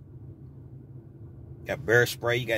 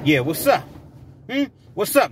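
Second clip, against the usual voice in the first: mock challenge, pitched up and louder; crazy talk to pet; 5 semitones higher, 4 dB louder than usual. Driver taunting a pet, crazy challenge. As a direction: square up to the animal, half in jest. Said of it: "Now I'm talking crazy to a".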